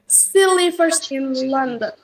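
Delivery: SHE LIVES IN LONDON stepping slowly downward; slow teaching demo, falling tune through "London"; falling intonation. Shown as a demonstration. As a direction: let the pitch sink steadily to "London". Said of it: "falling intonation".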